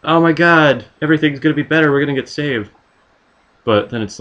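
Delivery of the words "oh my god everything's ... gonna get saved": really hopeful. Retold or imitated. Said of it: "the really hopeful".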